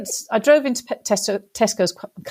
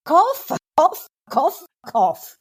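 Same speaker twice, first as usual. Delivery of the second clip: retold shout; 6 semitones higher than usual. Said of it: "I shouted at the top of my lungs".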